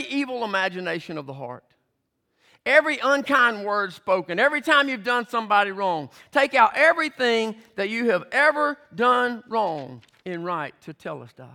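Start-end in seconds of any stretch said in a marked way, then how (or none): 2.6-10.0 louder, building preacher's call; rising preaching. Real, not acted. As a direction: press the congregation harder each line.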